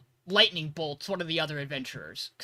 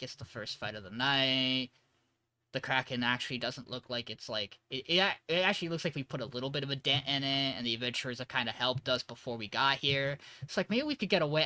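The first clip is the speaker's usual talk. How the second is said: retold hesitant musing, kept low; 4 semitones lower, 6 dB quieter than usual. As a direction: quietly talk yourself through the options. Weighing it up in a retelling.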